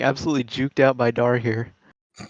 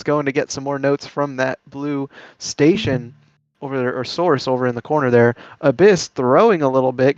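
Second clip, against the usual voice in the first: play-by-play commentary. Acted. Live match play-by-play.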